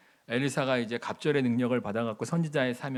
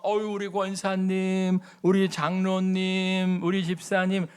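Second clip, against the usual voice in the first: fawning praise; 4 semitones higher, slower than usual. Retold or imitated. Fawning church greetings.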